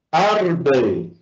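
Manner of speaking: "Árbol" with the stress on "Ár"; stress on first syllable. Shown as a demonstration. Teacher showing students the tonic syllable, stress on "Ár" in "Árbol". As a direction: lean on "Ár" in "Árbol", then let "bol" fall. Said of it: "que es la sílaba ar".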